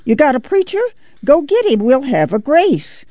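put-on high, eager old-woman voice; shrill, insistent questioning and ordering; shrill grandma. A narrator's reading. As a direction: pipe up shrilly as a demanding grandma. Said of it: "Grandma raised a shrill voice".

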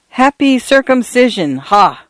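high-pitched mock greeting; gleeful exclamation. A narrator's reading. Priest recalls a college prank with his friend, gleeful. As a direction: crow the punchline of an old prank.

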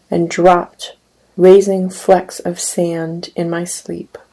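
measured, unhurried poetry recital; poem reading. Acted. Poet reading his poem to an audience, measured recital. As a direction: read each image as a poem, letting lines land.

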